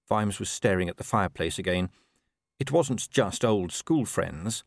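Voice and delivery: plain reading voice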